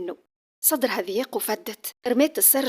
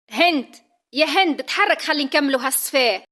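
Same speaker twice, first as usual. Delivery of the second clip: calling out; 4 semitones higher, 6 dB louder than usual. Acted. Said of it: "بوها ناداها".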